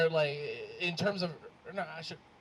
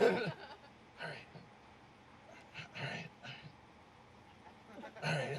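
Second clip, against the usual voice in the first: long pauses, dropping softer after the first; nervous best man; 7 dB quieter than usual. Retold or imitated. Imitating nervous best man starting his speech, hesitant. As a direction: imitate halting, fading false starts. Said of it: "visibly nervous".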